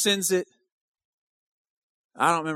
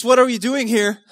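"What are you doing here?" thrown out higher and louder, stress on "are"; loud preaching question; 7 semitones higher, 11 dB louder than usual. Acted.

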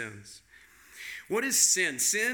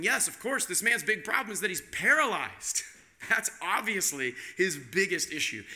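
knowing reader; 3 semitones higher than usual. Retold or imitated. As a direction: play the smug reader who's sure. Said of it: "you're thinking".

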